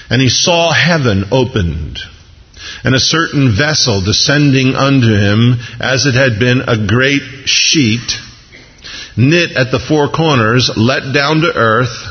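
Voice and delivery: slow, measured Bible reading; scripture reading. Acted. Preacher reading Peter's vision to congregation, slow scripture reading. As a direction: read it out slowly, phrase by phrase.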